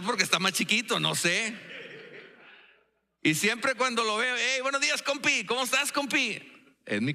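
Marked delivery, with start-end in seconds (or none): 4.4-6.4 saludo más agudo, como a un pequeño; saludo agudo cariñoso. Retold or imitated. Saluda al pastor Job. (saludo agudo a su compi)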